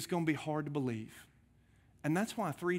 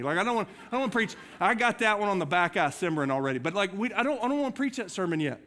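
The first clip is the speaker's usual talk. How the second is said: worked up; 2 semitones higher than usual. Real, not acted. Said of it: "I'm getting worked up".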